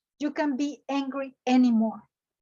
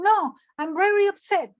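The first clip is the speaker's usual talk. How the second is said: higher-pitched acted protest; upset retort; 5 semitones higher than usual. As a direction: correct them, mildly indignant. Acted upset reply in a role-play.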